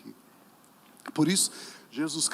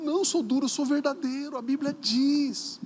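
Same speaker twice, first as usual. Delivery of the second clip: high, raised preaching retort; firm retort; 9 semitones higher, 3 dB louder than usual. Acted. Pastor answers being called hard, emphatic high retort. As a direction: stand your ground, stretching the final words.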